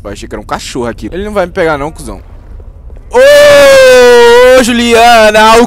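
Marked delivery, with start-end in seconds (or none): 3.1-5.7 high, loud put-on yell at a character; mock shouting. Gamer yelling at game girl Juliana, hammed-up. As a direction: holler at her in a silly voice. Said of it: "yelling at game character".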